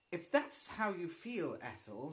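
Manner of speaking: icy tone. Acted. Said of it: "she said in an icy tone".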